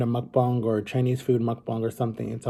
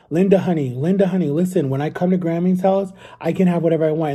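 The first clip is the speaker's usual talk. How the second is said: lightly voiced whiny kid, higher and louder; bratty kid; 4 semitones higher, 3 dB louder than usual. Boy in the video telling his mother Linda what he wants, bratty. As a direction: imitate a kid bargaining with mom. Boy's line from viral video.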